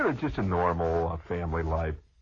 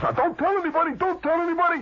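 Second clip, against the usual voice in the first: loud, much higher mock warning; high Flick voice; 6 dB louder than usual. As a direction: squeal the warning.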